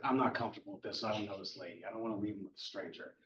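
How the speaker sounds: quick, softened protest; retold uneasy objection. Sue objects to leaving her son with a stranger, uneasy. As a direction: run through the worried objection fast and low.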